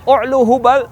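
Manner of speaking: high, loud shout; war cry. Acted. Abu Sufyan to the Muslims, high shouted war cry. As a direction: hail the idol at the enemy.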